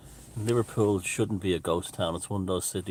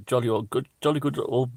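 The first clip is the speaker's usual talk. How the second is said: stereotyped English; 5 semitones higher than usual. Retold or imitated. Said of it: "they think English people walk around".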